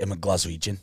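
low Glaswegian lilt; Scottish accent. Shown as a demonstration. Host gives line to copy, Scottish accent. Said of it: "They do Scot-, Scottish accent".

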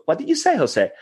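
high, puzzled "what did you say"; mock confused listener. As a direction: ask back as if lost. Imitating someone asking him to repeat.

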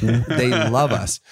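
retold plea, drawn out slowly; slow emphatic repeat. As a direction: stretch out "They love us" for comic insistence.

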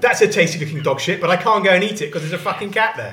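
high, loud cartoon bird ranting about a cat; swearing bird. Bird spotting a cat from the branch, loud and outraged.

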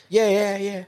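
mock a faint Canadian accent; Canadian twinge. Aussie bloke confirms he's from Australia, put-on Canadian twinge. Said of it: "a bit of a twinge of Canadian in his accent".

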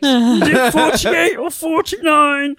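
excited Rosie. Retold or imitated. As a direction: gush like a thrilled gamer. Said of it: "impression of Rosie being excited".

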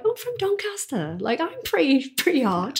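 mock tough Doncaster voice. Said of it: "I'm like".

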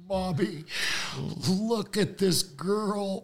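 high, drawn-out call to Mommy. Retold or imitated. Calls his mother's attention to girl.

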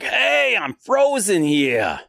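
indignant New York holler, high on the first word; New York accent. Acted. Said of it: "they all have that accent".

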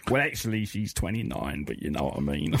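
light aging-rocker voice; lightly voiced aging rocker; impression of a rock singer. Host plays a rock singer as a studio guest, lightly voiced. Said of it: "Sir Mick Jagger, please come in".

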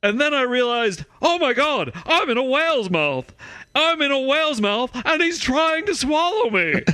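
hammed-up Massachusetts accent, panicked quote; overdone Massachusetts accent, like a kid faking a grown-up; attempted Massachusetts accent. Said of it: "Cameron on Ferris Bueller's Day Off trying to imitate a grown-up".

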